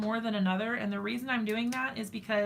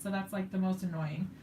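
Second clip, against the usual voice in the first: ordinary delivery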